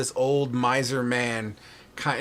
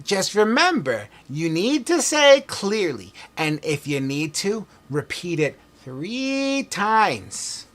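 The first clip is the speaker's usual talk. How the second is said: put-on old man voice; slower than usual. Old man NPC continuing.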